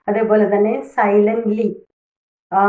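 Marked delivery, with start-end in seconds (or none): 0.9-1.7 സൈലന്റ്ലി with the weight on സൈ; first-syllable stress. Shown as a demonstration. Teacher gives another example, സൈലന്റ്ലി stressed at the start. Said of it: "first സിലബിളിലായിരിക്കും അതിൻ്റെ stress".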